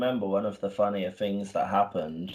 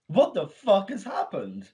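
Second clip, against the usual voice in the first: laughing disbelief; 9 semitones higher than usual. Retold or imitated. Retold shock at news.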